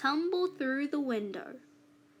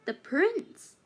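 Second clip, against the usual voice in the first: Rapunzel; 5 semitones higher than usual. A narrator's reading. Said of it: "said Rapunzel".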